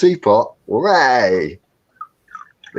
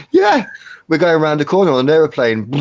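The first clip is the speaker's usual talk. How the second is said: playful excited squeal; 6 semitones higher than usual. Pretend. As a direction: squeal like a giddy child.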